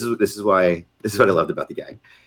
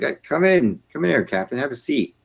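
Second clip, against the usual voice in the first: higher-pitched imitation of a genial boss; friendly welcome; 8 semitones higher than usual. General welcoming captain to his office, retold friendly welcome. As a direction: usher the junior officer in lightly.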